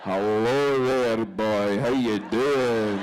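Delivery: loud, drawn-out Scottish come-on; Scottish accent. Acted. Playing a stranger in bed, teasing Scottish accent. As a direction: stretch each word in a hammed-up Scottish brogue. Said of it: "It freaks Scott out when I speak like this".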